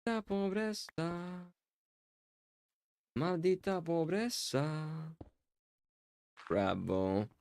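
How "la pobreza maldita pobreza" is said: mock lament. Slow drawn-out mock lament.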